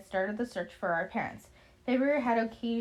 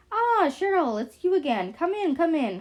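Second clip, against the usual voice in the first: high, loud, delighted welcome; excited high-pitched old woman; high-pitched squeal; 7 semitones higher, 5 dB louder than usual. A narrator's reading. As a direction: squeal a greeting at a returning guest. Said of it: "Her voice is high-pitched and squealing".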